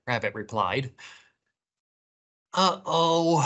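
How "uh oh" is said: slightly raised, worried uh-oh; a touch of storybook dread; mild whimper. A narrator's reading. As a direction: whimper it lightly. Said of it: "whimpered Tortoise, Bird, and Squirrel".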